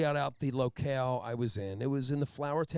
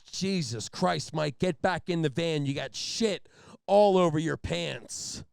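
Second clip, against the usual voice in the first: disgusted coworker; 4 semitones higher, 5 dB louder, slower than usual. Retold or imitated. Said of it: "He goes".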